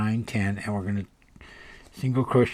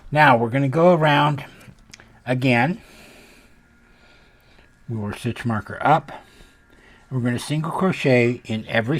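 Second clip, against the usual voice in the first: yelling over leaf blower; 4 semitones higher, 5 dB louder than usual. Real, not acted. Talking over neighbor's leaf blower.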